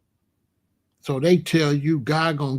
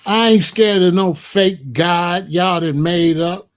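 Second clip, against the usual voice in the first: slow, loud, emphatic defiance; 6 dB louder, slower than usual. Real, not acted. Host rejecting a threat of God's punishment, loudly defiant. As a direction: push each word out loud and slow.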